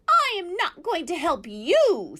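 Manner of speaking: high, loud refusal; owl screech. A narrator's reading. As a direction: screech it from the treetop. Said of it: "screeched the owl".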